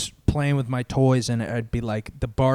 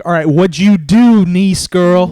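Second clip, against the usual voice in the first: loud, high mock demand; hammed-up priest; 6 semitones higher, 13 dB louder than usual. Priest grilling a little kid in confession, hammed-up loud demand. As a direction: boom it out as a nosy priest. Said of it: "the priest is like".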